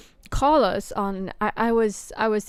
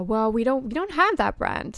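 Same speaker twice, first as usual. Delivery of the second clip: customer service voice; 2 semitones higher than usual. Retold or imitated. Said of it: "no, excuse me. I went".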